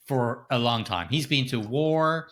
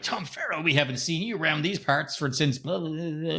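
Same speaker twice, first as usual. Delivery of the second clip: mock folksy greeting; 5 semitones higher than usual. Mock greeting for film's Tom Farrell.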